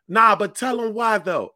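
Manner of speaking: high, loud, drawn-out sister imitation; heckling sister. Sister heckling a bombing comic from the audience, high mock urging. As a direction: call out slowly like a pushy audience member. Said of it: "And my sister like".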